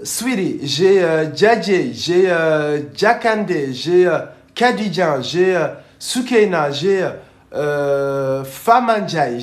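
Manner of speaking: punchy shout-outs to the audience; projected voice, name after name; loud roll call. Real, not acted. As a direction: call out each name loudly, drawn-out hesitations between. Calling out names to share.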